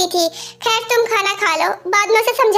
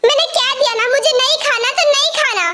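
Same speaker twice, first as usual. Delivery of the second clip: higher, stubborn repeat of the refusal; insistent refusal; 4 semitones higher than usual. Acted. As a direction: dig in and insist, angrier this time. Jimin repeats her refusal, insisting. (ज़िद्दी, ऊँची आवाज़ में दोहराया इनकार)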